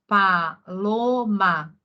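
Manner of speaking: Paloma drawn out very slowly, syllable by syllable; teacher slowly sounding out Paloma; slow reading aloud. Shown as a demonstration. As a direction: read Paloma slowly, as if sounding out a child's writing. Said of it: "ó".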